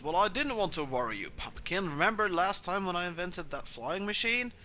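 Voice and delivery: a hint of a doting vampire father; fond dad explaining to his little girl; pet-name papa, lightly acted; lightly voiced doting dad. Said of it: "who goes".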